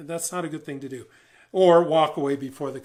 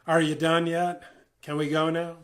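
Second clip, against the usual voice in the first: impatient. Shown as a demonstration. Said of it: "don't say".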